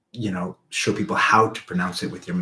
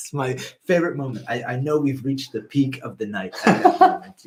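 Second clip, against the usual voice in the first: laughing; 5 semitones higher than usual. Real, not acted. Laughing about friend's party antics.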